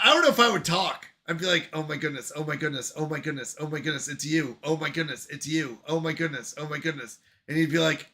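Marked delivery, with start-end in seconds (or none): 1.7-7.2 low, soft, looping mutter; mock starstruck babble. Imagining meeting a famous streamer, mock starstruck. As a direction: repeat it under your breath, dazed.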